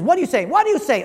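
mocking impatience. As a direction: repeat it with mounting scorn. Host mocking pidgin caller.

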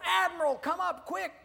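high, loud alarmed call; high-pitched shout of warning; urgent yell. Acted. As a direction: yell up for the boss in a hurry. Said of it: "He yells to the admiral".

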